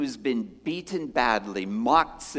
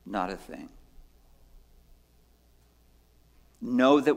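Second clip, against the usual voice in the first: calm Jesus; 4 semitones lower than usual. Acted. Jesus quoted answering Pilate.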